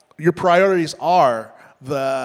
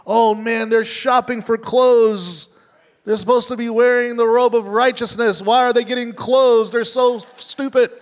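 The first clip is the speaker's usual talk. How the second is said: higher, louder, scornful put-on voice; mock scornful God; 6 semitones higher, 3 dB louder than usual. Preacher mocking a wrong picture of God, scornful higher voice. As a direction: ham up a petty, disgusted deity. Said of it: "He's not offended that you".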